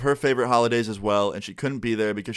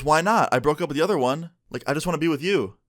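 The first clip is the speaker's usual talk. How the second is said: attitude; 5 semitones higher than usual. Retold or imitated. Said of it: "she gets an attitude with me".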